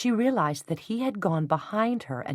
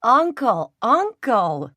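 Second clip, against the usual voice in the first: mock surrender; 6 semitones higher, 8 dB louder, much slower than usual. A narrator's reading.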